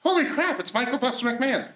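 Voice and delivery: mock amazement. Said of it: "I know what you're thinking".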